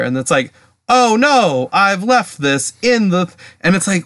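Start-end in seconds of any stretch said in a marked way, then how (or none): 0.9-3.3 hammed-up, drawn-out stage delivery; bad actor. Mimicking the butler in a terribly acted play, deliberately bad acting. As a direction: overact it like a terrible actor, higher at first. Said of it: "you have to be a bad actor here".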